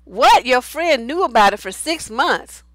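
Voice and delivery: sharp shocked "what?"; surprised. Real, not acted. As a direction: react in disbelief. Reacting to shocking comment.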